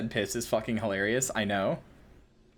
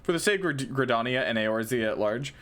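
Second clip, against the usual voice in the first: jock voice; 3 semitones lower than usual. Acted. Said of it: "a jock voice for all these bow guys".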